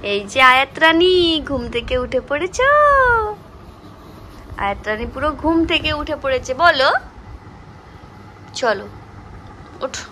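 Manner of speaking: sing-song wake-up call. Real, not acted. Mother waking daughter Ayat.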